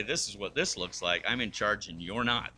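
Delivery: a hint of a domineering husband; mock bossy husband. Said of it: "you think it's real easy to say".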